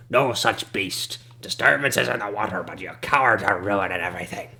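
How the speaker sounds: hobble into it, dismissive and cranky; a shabby old local scolding the party; shabby old man. Acted. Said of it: "And he says".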